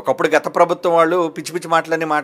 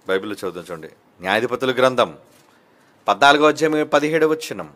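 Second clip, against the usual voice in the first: usual speaking voice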